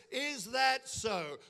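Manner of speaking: slow, measured retort; mild, drawn-out comeback. Acted. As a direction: answer back slowly as a scornful ruler. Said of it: "retorted Pharaoh".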